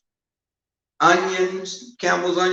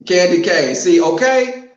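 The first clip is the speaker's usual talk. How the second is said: louder, raised call to a viewer; loud playful callout; calling out teasingly; 7 dB louder than usual. Real, not acted. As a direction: tease her by name.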